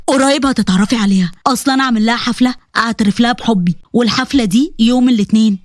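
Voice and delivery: a hint of a young man talking about his bride; Omar's voice.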